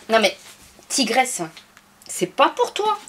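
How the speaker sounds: high-pitched pet talk; talking to the cat. Real, not acted. Scolding the cat. (voix aiguë pour parler au chat)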